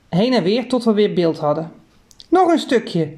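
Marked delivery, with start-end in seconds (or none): 2.3-3.1 mild call. Acted. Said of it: "riepen mijn vader en ik".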